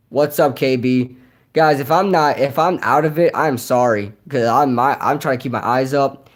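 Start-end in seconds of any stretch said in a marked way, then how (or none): 1.5-6.3 hoarse voice. Real, not acted. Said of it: "I'm losing my voice. My voice is almost shot from yelling".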